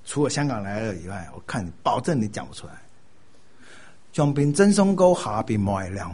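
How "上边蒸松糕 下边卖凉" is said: slow demo phrase. Shown as a demonstration. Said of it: "他教我什么广东话".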